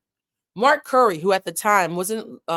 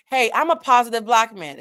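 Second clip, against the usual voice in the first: a louder, brighter take on Puff's line; mock upbeat announcement, louder; Puff's upbeat intro; 4 semitones higher, 5 dB louder than usual. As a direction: hype it up like a stage greeting. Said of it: "he started off with".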